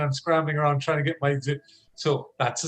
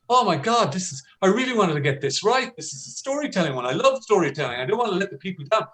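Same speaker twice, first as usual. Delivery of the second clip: mock panic; 4 semitones higher than usual. Shown as a demonstration. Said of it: "I can heighten the conflict".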